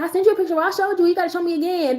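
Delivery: put-on a kid insisting on being shown; little sister voice.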